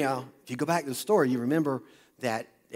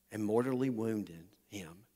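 whisper; 5 semitones lower, 7 dB quieter, slower than usual. A narrator's reading. The preacher at the story's climax, whispered. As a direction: whisper it, slowly.

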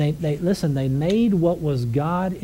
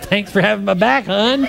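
sarcastic thanks; 7 semitones higher, 6 dB louder than usual. Retold or imitated. Sarcastic thanks to wife, laughing.

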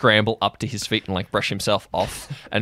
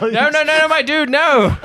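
high, loud, laughing protest; alarmed pleading; 7 dB louder than usual. Real, not acted. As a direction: beg him to stop, half laughing. Pleading to stop the stab.

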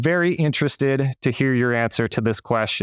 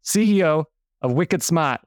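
Northeast accent, "Smart" with the r dropped as "smaht"; Boston-style Northeast accent, light and playful; 2 semitones higher than usual. Shown as a demonstration. Host naming the guest's company in a Northeast accent. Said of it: "I gotta use my Northeast accent when I say it".

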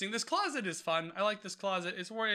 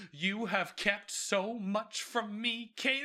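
slow mock reproach; 3 semitones higher, much slower than usual. Podcaster quoting a mother scolding her daughter, slow mock reproach. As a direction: imitate a wronged mother, drawn out.

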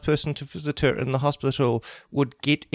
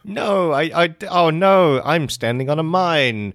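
louder, rising alarm, hammed-up; mock panic; 5 dB louder, slower than usual. Papa discovers he is on a mine, hammed-up panic. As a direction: realize the danger with comic panic. Father realizes he's on a mine.

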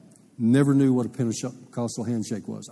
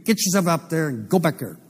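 raised, commanding pastor voice; stern pastor order; 5 semitones higher than usual. Retold or imitated. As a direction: order him up out of the seat.

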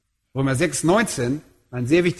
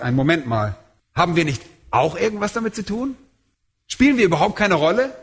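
objecting listener; faster than usual. Acted.

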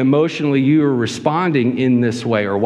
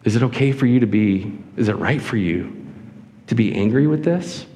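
counselor's gentle question; 2 semitones lower than usual. Acted. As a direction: ask gently, easing down then lifting at the end. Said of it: "God is a wonderful counselor".

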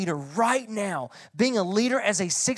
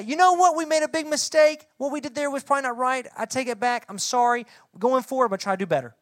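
animated mock apology; 5 semitones higher, faster than usual. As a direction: play a leader owning up with gusto. Voicing an ideal leader's apology.

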